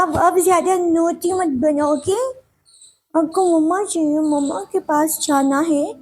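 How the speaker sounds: lightly voiced little girl, pleading and sulky; young girl. Girl begging papa and grandma for her mom, whiny and pleading. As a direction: play a small girl missing her mom, coaxing her papa.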